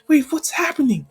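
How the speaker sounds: high-pitched confused question; bewildered alarm. Acted. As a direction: ask in startled confusion, voice jumping up. Hero confused as crowd turns.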